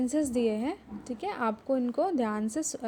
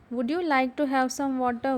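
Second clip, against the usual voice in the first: slow, careful reading for the class; deliberate teacher read-aloud; slower than usual. Shown as a demonstration. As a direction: read it slowly so they can follow. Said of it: "उसको ज़ोर से पढ़ेंगे".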